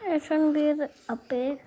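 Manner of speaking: hushed whisper. Real, not acted. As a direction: whisper it under your breath. Child whispers to camera.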